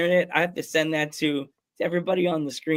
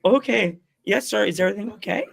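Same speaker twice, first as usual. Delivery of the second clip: higher, mildly mock-nervous politeness; 5 semitones higher than usual. Joe answering the wrestler who renamed him, lightly nervous. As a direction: act out an anxious, deferential reply. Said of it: "went from normal Joe to nervous".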